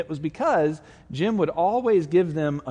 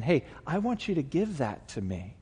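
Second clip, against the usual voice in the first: gentle Spirit voice; 6 dB quieter than usual. Retold or imitated.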